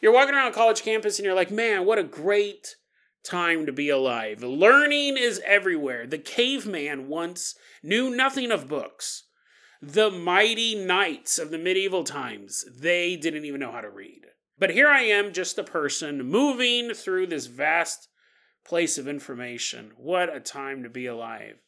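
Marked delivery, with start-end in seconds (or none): 1.5-4.4 real voice. Acted. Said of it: "Let me give you a real voice". 6.1-21.6 grand monologue. Acted.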